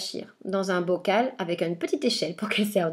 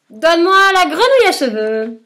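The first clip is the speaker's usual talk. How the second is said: much higher, loud shouted command; defiant demand; 8 semitones higher, 11 dB louder than usual. Acted. Boy shouting his demand at the witch, loud and high. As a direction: hurl the demand at her. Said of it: "et je réponds".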